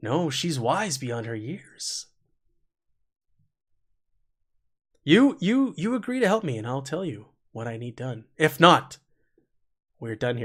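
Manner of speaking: a little annoyed, testy, short-tempered. Speaking as her to the group, starting to get a little testy. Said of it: "starting to get a little testy".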